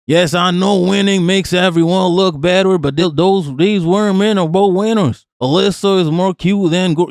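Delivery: lightly put-on Yankee reading voice; Yankee accent. Streamer reading out a tweet about two skaters, light Yankee accent. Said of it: "Let me do a Yankee accent".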